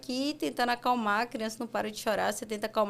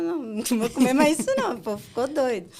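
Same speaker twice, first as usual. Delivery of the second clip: put-on scared child; 3 semitones higher, 6 dB louder, faster than usual.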